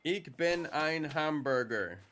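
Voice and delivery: German phrase. Retold or imitated. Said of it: "Famously said by John F. Kennedy".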